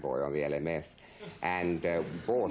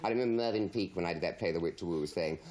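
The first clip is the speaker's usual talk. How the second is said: normal talking voice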